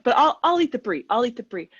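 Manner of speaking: eagerly offering to eat the brie instead. Retold or imitated. Eager offer after refusing cheese.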